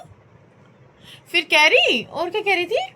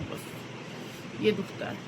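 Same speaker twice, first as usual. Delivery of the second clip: barely voiced, slow and hurting; pained whisper; 6 semitones lower, 14 dB quieter, much slower than usual. Real, not acted. Tired mother whispering to viewers about her pain. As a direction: whisper it slowly, drained by the pain.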